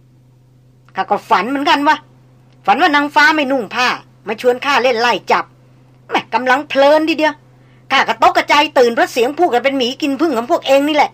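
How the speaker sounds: lightly voiced folksy old tracker joking; old hunter teasing.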